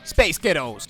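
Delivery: put-on American accent passing for Scottish; American accent trick. Shown as a demonstration. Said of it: "say Space Ghettos in an American accent".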